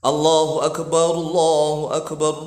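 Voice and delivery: "Allahu" with thick, rounded lips; heavy dark l in "Allahu Akbar"; thick tafkhim Allah. Shown as a demonstration. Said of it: "agak mencucu monyong mulutnya".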